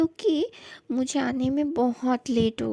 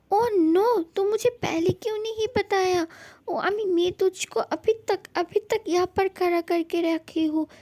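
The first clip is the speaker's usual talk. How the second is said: higher, alarmed oh no; dismay; 4 semitones higher than usual. Acted. Mother hearing her son has not eaten, dismayed. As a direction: fret in sudden dismay.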